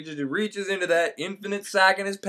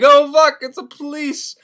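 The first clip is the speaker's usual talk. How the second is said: mock panic; 8 semitones higher, 5 dB louder than usual. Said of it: "And Candide's like".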